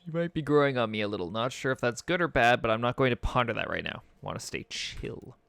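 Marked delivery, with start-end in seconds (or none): 4.2-5.4 much softer, slow and breathy; soft breathy murmur. Acted. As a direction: let it fade into a relaxed breath. Laid-back sign-off.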